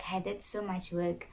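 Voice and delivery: under the breath. Retold or imitated. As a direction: say it softly, as if not meant to be heard. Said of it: "actually under my breath".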